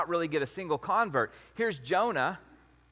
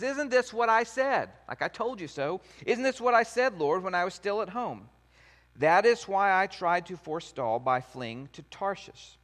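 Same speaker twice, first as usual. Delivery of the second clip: frustrated complaint; 4 semitones higher than usual. Retold or imitated. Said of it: "not in a very happy tone".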